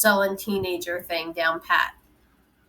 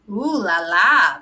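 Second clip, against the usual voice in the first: drawn-out, slow ooh la la, louder; mock impressed; 7 dB louder, slower than usual. A narrator's reading. Grandfather mocks the restaurant with slow fake awe. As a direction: sneer at the cheap place with slow fake awe. Grandfather mocking the fancy place.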